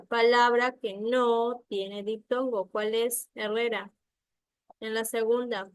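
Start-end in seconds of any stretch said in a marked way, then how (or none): 0.0-2.7 slow reading. Shown as a demonstration. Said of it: "Ahora pasamos a la segunda".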